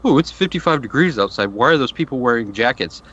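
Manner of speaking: mock-amazed complaint; put-on incredulous mockery. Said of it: "you're gonna start mocking people".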